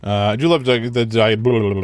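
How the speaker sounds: tripping over the words; fumbling the start, then giving up; tongue-tied stumble. Real, not acted. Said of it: "I can't speak".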